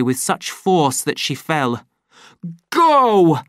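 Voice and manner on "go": loud, higher bark; shouted order. A narrator's reading. Savage standing over Lenina, shouting. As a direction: command her out. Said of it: "he shouted".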